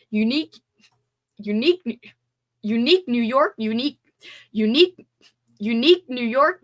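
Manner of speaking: very slow careful articulation; slow tongue twister. Shown as a demonstration. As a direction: stretch each syllable slowly. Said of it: "it's hard".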